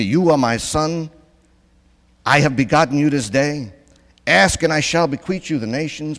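loud, high proclamation; declaiming the Lord's decree to the crowd, loud; announcing a decree. Retold or imitated. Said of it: "I'm gonna announce the decree of the Lord here".

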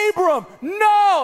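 a drawn-out high yell of the name, then no; the same shriek again, slow and high; mock scream. Wife finds the boy messing the bathtub, a stretched mock shriek. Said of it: "this same scream that I heard".

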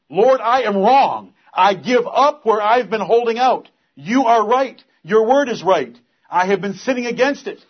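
loud, high, broken-hearted confession; repentant prayer. Pretend. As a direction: cry out your guilt to God. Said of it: "That's to tear your own heart".

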